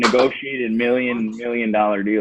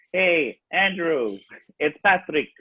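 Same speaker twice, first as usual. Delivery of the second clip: scammer imitation; 4 semitones higher, slower than usual. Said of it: "a guy from India pretending to be me".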